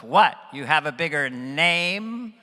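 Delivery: incredulous phone friend, drawn-out rising question; Jon Lovitz. Retold or imitated. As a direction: stretch the question upward, put out. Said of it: "on the phone with Jon Lovitz".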